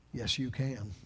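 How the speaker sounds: "yes, you can" softly, almost to himself; quiet affirmation. Shown as a demonstration. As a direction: murmur "yes, you can" as a hushed promise. Quiet take before the loud repeats.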